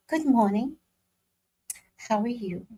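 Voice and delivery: high, airy put-on office greeting; corporate office voice. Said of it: "how to talk white".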